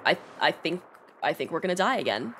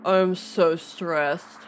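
mock whine; 5 dB louder, much slower than usual. Frustrated in game.

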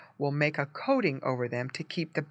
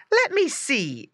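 high, slow eager wife's voice; wife leaning in to look; curious farmer's wife; 11 semitones higher, 4 dB louder, slower than usual. A narrator's reading. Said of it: "exclaimed the farmer's wife".

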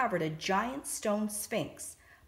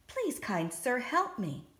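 small, pleading squeak, pitched higher; a frightened little mouse begging for help; 5 semitones higher than usual. Acted. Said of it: "the mouse squeaked".

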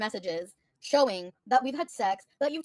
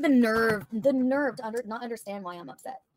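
outraged; 4 dB louder than usual. Real, not acted.

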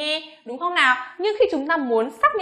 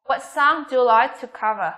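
measured question, "cover" dropping; falling intonation; slower than usual. Shown as a demonstration. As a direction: end the question downward on "cover". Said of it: "Cover của chúng ta xuống giọng".

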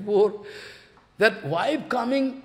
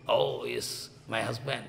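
wife's shy reply; 9 semitones lower, 8 dB quieter than usual. Acted. Wife greeting her husband.

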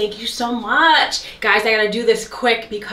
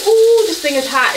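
loud ooh; 7 semitones higher, 5 dB louder than usual. Real, not acted. Stone burns her.

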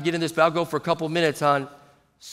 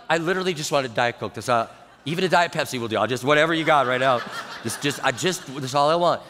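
fast, lower-pitched pleading; flustered protest; 5 semitones lower than usual. Retold or imitated. Pastor only wants a Diet Coke, flustered protest. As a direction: backpedal in a hurry, stumbling over it. Pastor defends himself, retold.

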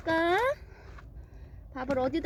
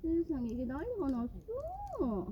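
softer, slower sigh over the mess; soft slow lament; 6 dB quieter, slower than usual. Real, not acted. Mother showing her pets the rain mess, soft slow lament. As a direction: murmur it slowly in dismay.

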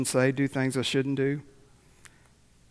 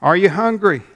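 loud, high rousing question to the crowd; calling out; 6 semitones higher, 10 dB louder than usual. Real, not acted. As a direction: call it out to the whole room. Calling out to the congregation.

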